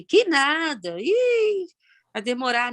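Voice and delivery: mock-weary "que nada", pitch jumping up on "ih"; dismissive brush-off. Answering friends about the pension, hint of resigned dismissiveness. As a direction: imitate her old resigned shrug of an answer. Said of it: "Eu não vou mais falar assim".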